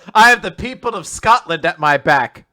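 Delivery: loud, proud proclamation; grandiose boast. Pretend. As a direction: declare it like a lord. Grandiose Scottish lord boast.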